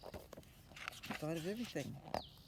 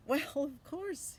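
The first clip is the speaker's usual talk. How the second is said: put-on higher, louder know-it-all boy; confident boy; 10 semitones higher, 5 dB louder, much slower than usual. Boy answering his mother, higher and confident. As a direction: toss off the fix like it's obvious. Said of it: "he says".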